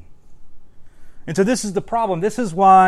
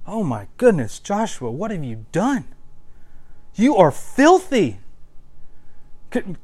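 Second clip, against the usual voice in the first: mock a fed-up parent scolding Joshua; scolding, disgusted God; 2 semitones higher than usual. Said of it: "He does not say".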